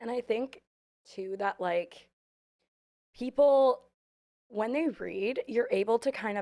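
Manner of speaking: voice breaking mid-phrase. Speaker talking about reading, voice cracking. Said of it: "my voice is cracking".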